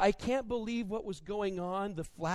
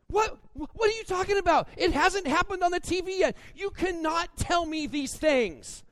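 much higher and louder, mock outrage at the spoiler; hammed-up husband's alarm, slowing on the last line; indignant outburst; 11 semitones higher, 7 dB louder than usual. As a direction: protest like a sports fan robbed of the moment. Retelling outburst at wife's spoiler.

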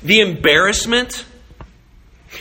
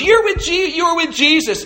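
put-on much higher, louder accusing child voice; little girl's voice; 13 semitones higher, 5 dB louder than usual. Servant girl accusing Peter in the courtyard, high piping child voice.

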